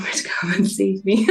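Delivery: whispered through a laugh; half-laughing, breathy whisper. Real, not acted. Relieved laugh recalling rescue.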